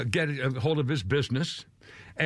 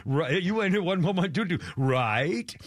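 laughing. Retold or imitated. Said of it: "Like she's talking".

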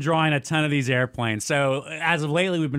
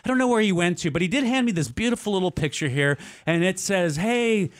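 attendant announcement; 6 semitones higher than usual. Retold or imitated.

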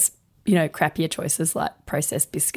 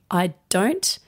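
calm firm refusal. Shown as a demonstration. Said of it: "just calmly and quietly saying".

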